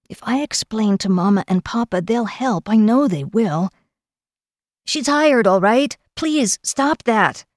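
put-on high-pitched, pressing girl's voice; flustered young girl. Kel agrees to hire the kneeling man's niece, flustered. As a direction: give in, flustered and pleading.

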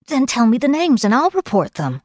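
high, insistent urging. A narrator's reading. Kel presses Gower for names, urging. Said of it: "she urged".

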